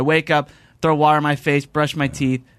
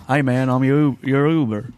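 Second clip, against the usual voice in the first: Southern accent. Shown as a demonstration. Asked how he sounds, imitating the Southern Uber driver. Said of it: "What does that sound like?".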